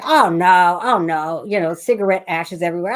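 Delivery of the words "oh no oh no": grandmother's dismay. Retold or imitated. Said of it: "She got to say".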